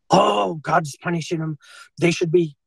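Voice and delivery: lightly hammed-up righteous alarm; mock outrage. Mimics outraged Christians during epidemic.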